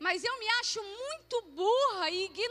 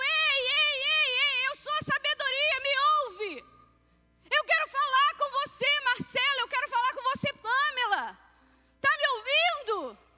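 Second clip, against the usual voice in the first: loud hollering shout; 4 semitones higher, 4 dB louder than usual. Speaker acting out Wisdom calling to people in the street, shouting to passersby. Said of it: "imagina você anda na rua e eu começo a gritar".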